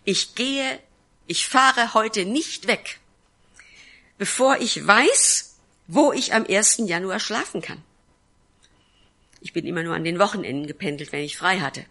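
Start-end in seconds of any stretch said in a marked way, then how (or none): 0.0-7.8 raised voice, slow and pleading, climbing higher; desperate prayer, higher and louder, slowed down; earnest crying out to Jesus. Retold or imitated. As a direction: cry out to God with everything, no leaving without an answer.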